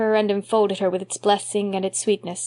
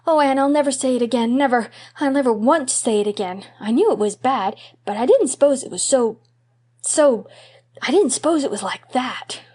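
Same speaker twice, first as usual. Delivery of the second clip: put-on a horrified boy promising never again; distressed little boy; 4 semitones higher than usual. Davy ashamed after saying word.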